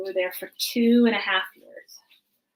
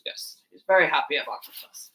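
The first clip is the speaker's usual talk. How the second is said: low, rough puppet voice; Cookie Monster; 4 semitones lower than usual. Acted. Puppet elf talking to kids at the toy store, Cookie Monster voice. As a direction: attempt a monster puppet's voice, pitched down. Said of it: "in a Cookie Monster voice".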